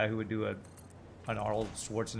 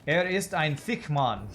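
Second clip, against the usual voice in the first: slow, higher-pitched mock German accent; 5 semitones higher, 4 dB louder, slower than usual. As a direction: put on a playful German accent, drawn out. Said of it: "In German".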